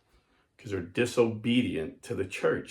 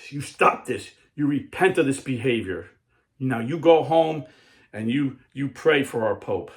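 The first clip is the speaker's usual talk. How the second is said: retold scolding; 3 semitones higher, 4 dB louder than usual. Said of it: "scolded him and says".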